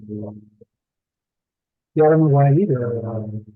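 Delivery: muffled as if underwater; garbled underwater mic sound. Real, not acted. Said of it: "I can't understand a word you're saying".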